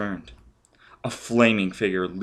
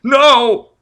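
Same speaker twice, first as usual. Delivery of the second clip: much higher, much louder scream; terrified scream; 14 dB louder than usual. Acted. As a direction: shriek it in pure panic. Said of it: "Forrest screamed".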